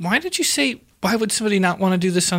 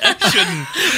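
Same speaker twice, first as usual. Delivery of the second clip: attempted Australian accent; 6 semitones higher than usual. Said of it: "try Australian next".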